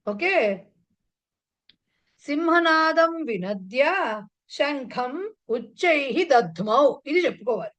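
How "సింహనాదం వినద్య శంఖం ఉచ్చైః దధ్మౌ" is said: measured Sanskrit recitation, word by word; drawn-out teaching delivery; slow model recitation. Shown as a demonstration. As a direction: recite slowly for the class. Teacher completes model Sanskrit sentence.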